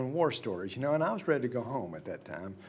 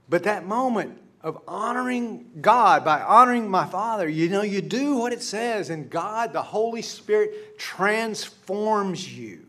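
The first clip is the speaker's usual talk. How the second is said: louder, higher preaching build; preaching at full force; 6 semitones higher, 7 dB louder than usual. Real, not acted. Pastor urges congregation to let God transform them, fervent preaching. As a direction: build to a fervent sermon climax.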